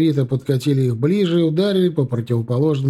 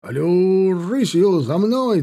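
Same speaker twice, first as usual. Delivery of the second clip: officer's shout; 6 semitones higher, slower than usual. Acted. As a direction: bark the order, high. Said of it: "донёсся окрик Огнева".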